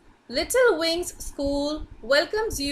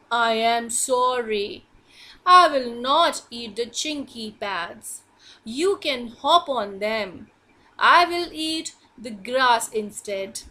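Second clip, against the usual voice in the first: a hint of a lower, gentle hippo; big hippo apologising; 3 semitones lower than usual.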